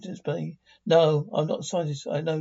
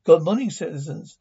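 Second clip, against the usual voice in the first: louder rough growl through a loudspeaker; growling speaker voice; 5 dB louder than usual. Acted. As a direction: growl the greeting over the speaker. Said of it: "Growling voice from speaker".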